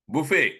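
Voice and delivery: buffet said boo-fay, T silent; French buffet. Shown as a demonstration. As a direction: say buffet like in France. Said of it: "it is pronounced as buffet".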